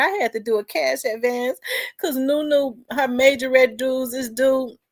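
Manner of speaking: high, tearful, weeping crying voice. Retelling a call to dad after doing a cash advance, retelling own crying. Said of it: "And I was crying".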